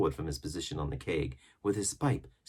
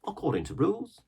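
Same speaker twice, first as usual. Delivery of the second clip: much higher sailor voice; pirate crewman; 13 semitones higher, 3 dB louder than usual. A narrator's reading. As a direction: mutter it on the way out. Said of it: "said one".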